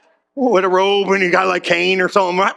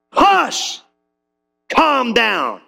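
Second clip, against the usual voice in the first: commanding hush; 8 semitones higher, much slower than usual. Acted. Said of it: "He said".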